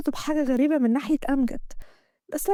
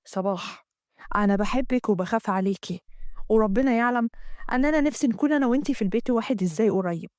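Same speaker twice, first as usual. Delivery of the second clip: Amgad; 3 semitones lower than usual. Acted. Amgad voiced in the story.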